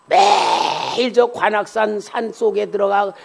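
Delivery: ordinary talk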